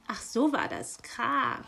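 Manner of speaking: miffed hiss at the magpie; hissing raven. Acted. Raven hearing the magpie's excuse, hissing. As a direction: hiss it with suspicion. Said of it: "zischte der Rabe".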